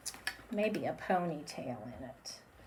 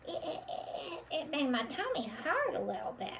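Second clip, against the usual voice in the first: soft laughing through the words; giggling; 9 semitones higher, 5 dB quieter than usual. Acted. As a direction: giggle while complaining. Puppet laughing.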